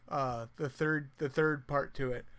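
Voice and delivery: slow, sleepy yawning speech. Real, not acted. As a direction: talk through a yawn. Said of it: "I'm sorry I'm yawning so much".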